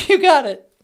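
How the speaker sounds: very high, squeaky machine voice; squeaky computer voice. Acted. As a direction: play the teleporter as a chirpy gadget. Wife voices teleport system.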